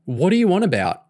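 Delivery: can't believe what he hears; confused outburst at girlfriend; baffled. Acted. Boyfriend baffled by accusation.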